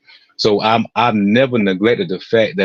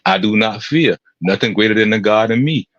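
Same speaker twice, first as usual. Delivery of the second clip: reciting affirmation. Retold or imitated. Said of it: "That's his recital".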